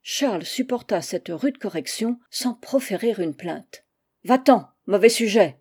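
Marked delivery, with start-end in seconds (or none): 4.2-5.6 loud, furious dismissal; angry cry. Acted. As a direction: drive him out with a shout. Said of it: "s'écria-t-elle". (cri furieux pour le chasser)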